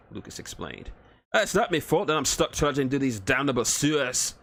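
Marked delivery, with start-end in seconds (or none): 1.3-4.3 gruff Scottish-Irish dwarf. Acted. Dwarf Thorgan complains.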